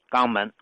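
肛门 as "gangmen" for Jiangmen; local Guangdong pronunciation. Shown as a demonstration. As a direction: say 肛门 with hard g instead of j. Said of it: "但当地的方言呢".

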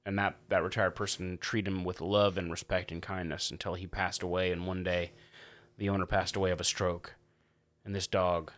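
low, soft eulogy delivery; mock-solemn. Host imagines the dog's late owner, mock-solemn. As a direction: tell it gravely, hushed, setting up a joke.

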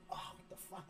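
very soft, hushed disbelief; retold under-the-breath bewilderment; stunned muttering. Stunned reaction under the shower.

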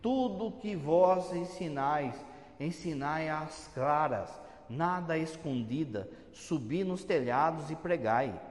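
slow, measured recitation; slow solemn quote of Jesus; solemn scripture quote. Retold or imitated. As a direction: read the words of Jesus slowly and solemnly. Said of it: "Jesus falou assim".

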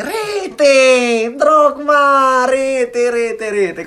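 high, loud breathless goal commentary; Marco Foroni goal call. Retold or imitated. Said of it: "un'imitazione di Marco Foroni".

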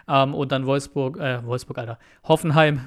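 tired slurred words; words blurring from fatigue; slurring. Real, not acted. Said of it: "ich lalle hier seit fünfundfünfzig Minuten".

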